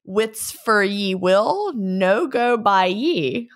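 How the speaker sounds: slow, deliberate Scots phrasing; Scots dialect saying. Acted. Reading a listener's Scots saying aloud, Scots dialect. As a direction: read the Scots saying out slowly. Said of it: "which translates to".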